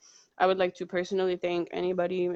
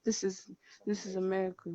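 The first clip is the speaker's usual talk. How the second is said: quoting a song; 9 dB quieter than usual. Retold or imitated. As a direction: softly echo a song lyric. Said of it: "heard that Donald Glover song".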